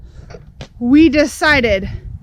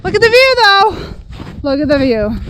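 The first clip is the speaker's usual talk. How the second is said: sarcastic; 5 semitones higher than usual. Real, not acted. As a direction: sell the foggy view sarcastically. Sarcastic about the view.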